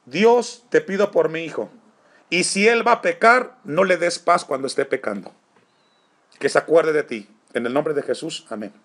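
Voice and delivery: lightly acted mother's plea to God; mother's prayer, retold. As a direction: call out to God as a praying mother, then ease to the amen. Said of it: "Mi madre comenzó a orar".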